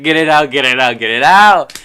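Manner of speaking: high, loud imitated panicked yell, building; retold crying panic. Imitating crying child with beetle in hair, panicked yell. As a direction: yell it as your panicked younger self. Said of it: "I started crying".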